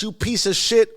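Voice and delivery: high-pitched retold outburst; irate. Tommy enraged by Bats' shine box taunt, irate. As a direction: spit the insult in acted fury. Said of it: "which leads Tommy to be irate".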